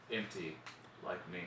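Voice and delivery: very low, very soft aside; quoting a killer's inner voice, hushed; hushed deadpan confession. Acted. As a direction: drop to a dark near-murmur. Repeats the dark Dexter line.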